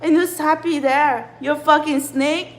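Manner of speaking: real fed-up venting; bitching. Real, not acted. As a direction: demand answers, exasperated. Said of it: "bitching like this".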